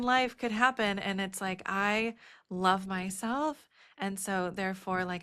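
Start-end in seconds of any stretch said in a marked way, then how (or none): 1.7-3.7 slow, sincere, I love myself, landing on myself; mean it, from the inside; heartfelt affirmation after naming every fear; sincere self-love. Real, not acted. Deep self-love after all fears.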